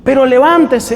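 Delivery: a Mexican friend bluntly cheering her to get up; mock Mexican pep talk. A Mexican friend urging a depressed woman up, pushy and high. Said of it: "los mexicanos dirían".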